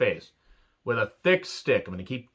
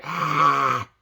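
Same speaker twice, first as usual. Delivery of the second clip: drawn-out spooky "aah"; imitated ghost noise. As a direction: imitate a ghost popping up behind someone. Imitates the ghost appearing behind.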